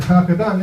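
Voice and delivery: "Graag gedaan" with scraped g sounds; guttural Dutch. Retold or imitated. Explaining to worried cousin, guttural Dutch "Graag gedaan". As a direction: rasp each g in "Graag gedaan" from the throat. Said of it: "it's Dutch".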